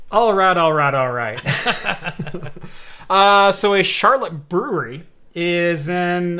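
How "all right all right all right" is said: breezy drawled "all right"; Matthew McConaughey. Pretend. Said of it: "McConaughey impersonation".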